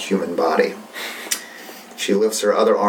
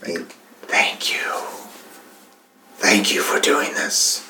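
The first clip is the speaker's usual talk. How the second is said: Zoltar's voice; 3 dB quieter than usual. Acted. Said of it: "Zoltar just goes".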